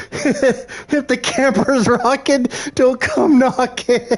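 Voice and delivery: slow mock-solemn sign voice; slow sing-song sign reading. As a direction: read the sign slowly and grandly. Sign quoted slowly, laughing.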